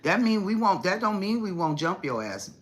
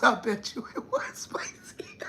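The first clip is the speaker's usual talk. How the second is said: whisper; 9 semitones higher than usual. Real, not acted. Teasing aside after laughing.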